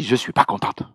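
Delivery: imitated Ivorian woman's accent. Unhappy church sister complains to her pastor, in Ivorian accent. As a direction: put on a displeased Ivorian accent. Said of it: "avec son bel accent ivoirien".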